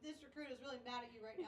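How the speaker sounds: mock recruit reply. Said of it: "He argues with you".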